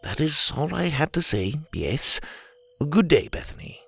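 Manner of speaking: high, patient gentleman; calm polite lecturing tone; prim orangutan voice. Acted. Leopold's voice.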